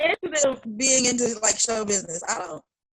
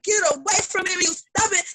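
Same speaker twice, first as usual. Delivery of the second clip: high mock teen voice, higher pitch; imitating a daughter pushing her mother away; daughter shoving her off; 9 semitones higher than usual. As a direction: brush mom off like an annoyed daughter.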